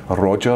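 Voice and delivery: "Roger" with a slow, rolled, throaty R; rolled Scottish R. Shown as a demonstration. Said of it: "like the way we would say".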